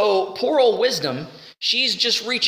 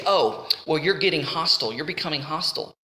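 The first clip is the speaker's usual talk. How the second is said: lightly voiced, low-pitched phone official; 5 semitones lower than usual. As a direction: imitate an unsympathetic official, understated. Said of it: "then they say".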